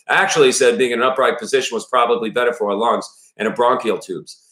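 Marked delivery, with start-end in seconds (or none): 0.1-0.5 put-on higher, louder retake in a Maine accent. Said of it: "it's Maine". 0.8-4.5 put-on father character with a Maine accent. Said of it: "it's Maine".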